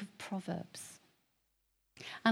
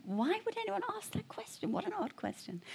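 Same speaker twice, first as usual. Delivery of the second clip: mock incredulous; 12 semitones higher, 5 dB quieter than usual. His retold puzzled thought.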